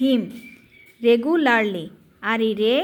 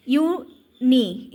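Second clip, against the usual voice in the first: drawn-out syllable; much slower than usual. Shown as a demonstration. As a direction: stretch ইউনি out very slowly as a teaching demo. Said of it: "ইউনি বানানটা দেখো". (ইউনি খুব টেনে ধীরে বলা)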